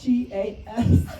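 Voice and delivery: loud, slow, straining to push the S out in "G A S"; "G A S" spelled with effort, the S finally forced. Real, not acted. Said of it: "spell, spell that again?".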